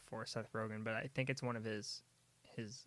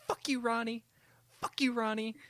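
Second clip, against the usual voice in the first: high, loud yell quoting the film; shouted mock insult, pitched way up; yelled movie-quote impression; 11 semitones higher, 7 dB louder than usual. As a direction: yell it like a heated cussing match. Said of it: "used to just yell at each other".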